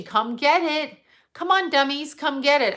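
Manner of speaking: high, mocking sales pitch; a hint of a carnival barker; mock pushy seller. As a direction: sneer it like a hustler. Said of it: "announcing it like they're selling it".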